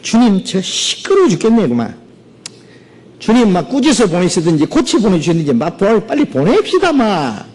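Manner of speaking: high, pleading whine; begging to get rid of her; exasperated disciples. Acted. Disciples begging Jesus to send her away. (짜증 내며 애원하는 제자들)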